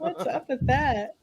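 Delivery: slow, pitch shifted voice; voice changer voice. Real, not acted. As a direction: talk through a voice changer. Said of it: "I'm just using a voice changer".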